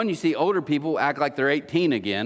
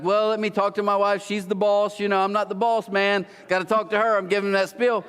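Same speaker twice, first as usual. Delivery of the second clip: higher-pitched running spiel; retold stalling excuse; 4 semitones higher than usual. Man putting off neighbour by blaming his wife, higher-pitched excuse. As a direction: stall him in a raised, even pitch.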